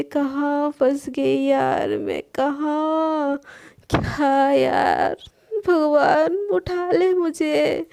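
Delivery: slow, drawn-out groaning lament; exasperated despair. Acted. Sana alone, despairing over her mess, slow. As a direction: sigh to the heavens, dragging it out.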